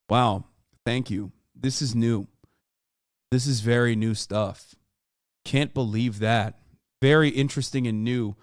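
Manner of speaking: unimpressed sarcastic praise. Acted. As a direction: feign being impressed, drily and without energy. Sarcastic reply to people's supposed revelation.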